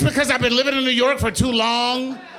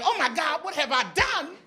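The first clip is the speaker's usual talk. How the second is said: mock panic; 10 semitones higher than usual. Panicking alone in the hot subway.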